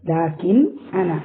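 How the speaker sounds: "ലാകിൻ അന" split into "ലാകിൻ" and "അന"; two separate words. Shown as a demonstration. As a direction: pronounce "ലാകിൻ", then "അന" apart. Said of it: "എന്നുള്ളതാണ്".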